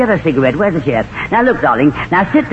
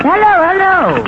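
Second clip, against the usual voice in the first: femme fatale; 12 semitones higher than usual. Acted. Tallulah on phone to friend.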